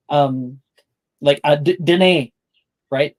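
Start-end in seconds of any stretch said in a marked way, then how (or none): 1.8-2.3 "Dene" said din-AY, with a long ay; Scots word. Shown as a demonstration. Explaining a Scots word, "Dene" said din-AY. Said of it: "but it's Scots".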